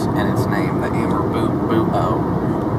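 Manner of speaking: put-on Southern accent. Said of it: "I'm gonna talk like this".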